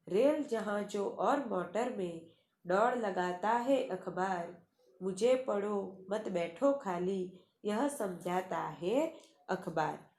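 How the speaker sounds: measured, lilting poem reading; poem recitation. Acted. Teacher recites the next poem verse. (कविता पाठ के अंदाज़ में)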